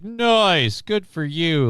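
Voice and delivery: mock impressed classmates catcalling; exaggerated "nice," swooping up; imitating dudes. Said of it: "a couple of dudes are like".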